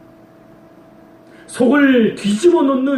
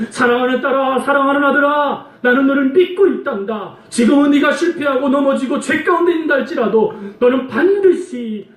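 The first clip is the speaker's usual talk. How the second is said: higher, fervent, slowing at the end; God assuring his children, higher and fervent; fervent reassurance; 6 semitones higher than usual. Acted. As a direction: lift them up with conviction. God encouraging sinners.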